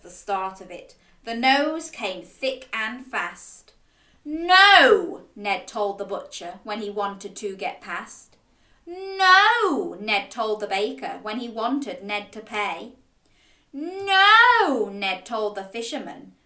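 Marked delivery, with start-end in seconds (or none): 4.2-5.2 loud, high defiant no; stubborn child's loud no; defiant refusal. A narrator's reading. Cross boy refusing the butcher. 8.9-10.0 loud, high defiant no; stubborn child's loud no; defiant refusal. A narrator's reading. Cross boy refusing the baker. 13.7-14.9 loud, high defiant no; stubborn child's loud no; defiant refusal. A narrator's reading. Cross boy refusing the fisherman.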